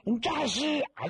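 high panicked shriek; terrified cry. Acted. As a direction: scream it, scared out of his wits. Mourner sees corpse rise.

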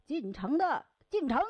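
calling out. Acted. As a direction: hail the crowd at dusk before the gate shuts. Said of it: "站在那儿紧喊".

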